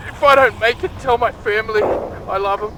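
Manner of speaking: wounded soldier gasping. Acted. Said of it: "earlier reader: wounded soldier gasping".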